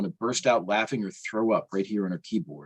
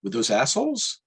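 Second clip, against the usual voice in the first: pitched way up, urgent question; urgent excitement; 9 semitones higher than usual. A narrator's reading. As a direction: press him, breathless with news. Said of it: "she says".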